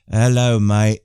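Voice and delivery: lightly put-on Australian greeting; bad Aussie accent. Host retrying a greeting for an Australian viewer, mild bad Aussie accent. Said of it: "There's my Aussie, my, my, my bad Aussie".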